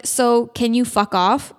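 slow, firm and pointed; slowly telling a stranger to back off; firm slow brush-off. Retold or imitated. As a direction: tell him off slowly and firmly. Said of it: "I'm like".

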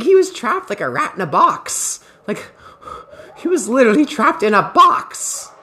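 lightly voiced mom marveling at the guy's stupidity; a hint of mom, amused and disbelieving; imitating laughing mom. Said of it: "she's like".

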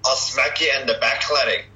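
put-on Scottish threat; Scottish accent. Scotsman threatens to smack a lad, Scottish accent. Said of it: "I've got a Scottish one".

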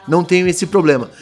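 usual speaking voice

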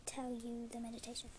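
soft, hushed meditation voice with whispered bits; soft bedtime meditation guide, half whispered; calm voice. Acted. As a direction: guide a sleepy listener gently. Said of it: "I will do it in a calm voice".

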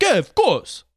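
mock an Italian-American uncle; put-on Italian-American voice; Italian-American accent. Quoting an uncle's accented reply.

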